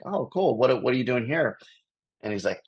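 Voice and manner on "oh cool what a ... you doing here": curious upbeat. Retold or imitated. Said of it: "I'm like".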